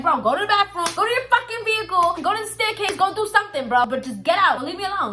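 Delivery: mild retold cussing out; cursing him out. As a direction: tell him off, pitch climbing on the orders. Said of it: "I literally started cursing at him".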